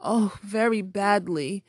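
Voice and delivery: cartoon princess. Princess voiced in story.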